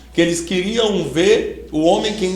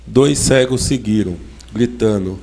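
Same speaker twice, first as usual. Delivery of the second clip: scripture read aloud in measured phrases; solemn Gospel reading; 5 semitones lower than usual. Real, not acted. Preacher reading Matthew to the congregation, measured Gospel proclamation.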